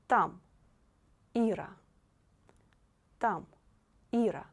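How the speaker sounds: Там and Ира with every letter A a clear open "ah"; clear A sound. Shown as a demonstration. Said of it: "this letter is always pronounced like A".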